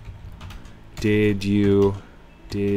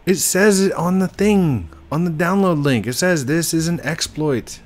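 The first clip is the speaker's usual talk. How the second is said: exasperated; 8 semitones higher, 4 dB louder than usual. Real, not acted. Exasperated explaining exploit warning.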